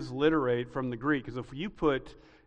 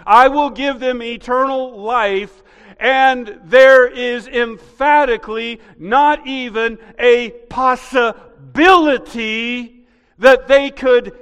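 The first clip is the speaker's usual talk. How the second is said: loud, slow, higher building proclamation; full-force preaching; 6 semitones higher, 11 dB louder, slower than usual. Acted.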